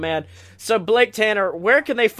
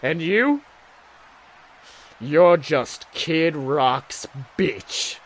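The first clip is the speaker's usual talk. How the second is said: wrestler promo; 8 semitones lower, 7 dB quieter than usual. Acted. Promo sign-off taunt.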